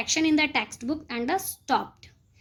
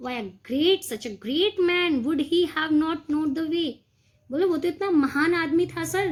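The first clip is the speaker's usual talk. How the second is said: mock indignant question; 3 semitones higher, slower than usual. Pupil mock questioning teacher.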